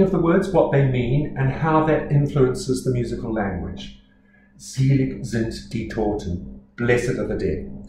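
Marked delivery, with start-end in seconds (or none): 4.6-6.6 Selig sind die Toten, slow and careful; careful German reading. Shown as a demonstration. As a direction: read the German slowly, each word clean. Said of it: "Selig, blessed".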